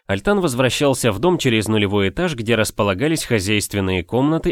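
ordinary talk, nothing marked

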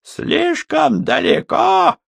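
high, slow furious echo; mock it back with rage; sinister shout. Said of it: "со зловещей ухмылкой".

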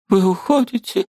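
высокий отчаянный вопрос; в отчаянии удержи его; отчаяние. A narrator's reading. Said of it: "с отчаянием проговорила". (высокий голос в отчаянии)

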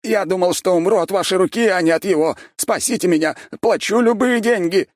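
high, loud terrified squeal; shrieking. A narrator's reading. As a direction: squeal for rescue in panic. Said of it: "взвизгнул Шустов".

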